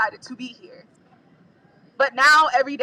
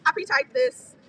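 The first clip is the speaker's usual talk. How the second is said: anxious; 4 semitones lower, 11 dB quieter, faster than usual. Real, not acted. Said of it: "I'm very anxious".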